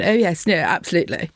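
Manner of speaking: a lightly voiced toffee-nosed BBC English; posh BBC English. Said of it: "If you go in all toffee".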